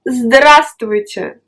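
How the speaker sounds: здравствуйте said slowly, every consonant clear; здравствуйте stretched out for the learner; slow model word. Shown as a demonstration. A teacher slowly models здравствуйте for the student. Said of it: "tu peux utiliser".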